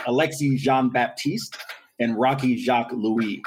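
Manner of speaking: "Jean-Baptiste" and "Jacques Louis" said slowly the French way; slow, careful French on "Jean-Baptiste" and "Jacques Louis"; French pronunciation. Shown as a demonstration. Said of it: "put a little French on it".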